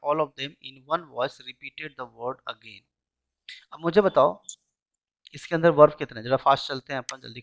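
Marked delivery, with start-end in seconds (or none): 0.1-2.9 slow reading. Shown as a demonstration. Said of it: "told the boys how to pronounce".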